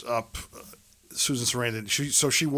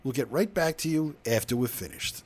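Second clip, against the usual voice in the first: answering machine message; 3 semitones higher than usual. Retold or imitated. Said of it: "He goes".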